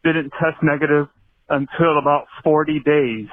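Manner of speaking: breathless from running; talking while running for breath. Real, not acted. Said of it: "so I'm out of breath".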